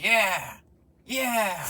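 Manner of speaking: hammed-up gleeful cheer; mock cheering. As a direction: cheer wildly as a joke. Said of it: "would you be like".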